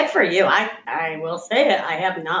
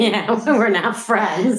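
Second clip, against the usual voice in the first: laughing through a joke; slower than usual. Real, not acted. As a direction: says it while laughing, slowly. Joking that they are not friends.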